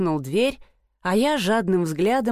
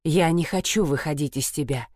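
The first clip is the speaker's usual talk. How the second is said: growl; 5 semitones lower than usual. Acted. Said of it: "прорычал он".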